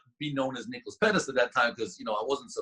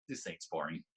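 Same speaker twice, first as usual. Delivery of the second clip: stunned; 8 semitones lower, 12 dB quieter than usual. Retold or imitated. Stunned realisation retold.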